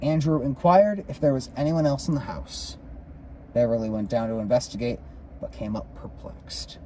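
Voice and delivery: measured, lilting read-aloud; story narration. A narrator's reading. Reader tells of the Hale house tour, story narration. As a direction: narrate the ghost tour from the book.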